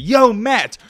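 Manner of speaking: high, mocking fan voice; lightly voiced skeptical fan; imitating doubting viewers. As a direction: needle the host like a heckler. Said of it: "I know what all you sitting there saying".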